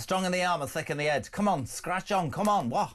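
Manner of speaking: put-on Scouse goading; Scouse accent. Host urging his colleague to try it, in Scouse. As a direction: egg him on in mock Scouse. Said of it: "stop doing the Scouse accent".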